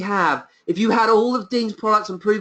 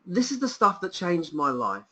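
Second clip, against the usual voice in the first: quieter, heartfelt; moved and sincere; softer, sincere; 6 dB quieter than usual. Real, not acted. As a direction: let it land gently. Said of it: "I'm really emotional about this offer".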